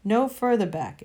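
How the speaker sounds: loud stern order; commanding threat. Acted. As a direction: drive them back with force. Witch threatens Uncle Andrew.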